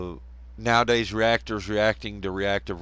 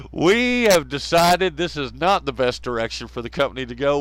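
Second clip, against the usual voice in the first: raised, louder put-on official voice; mock company announcement; 4 semitones higher, 5 dB louder than usual. YouTube announcing new policy, mock official proclamation. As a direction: proclaim it like a pompous corporate ruling.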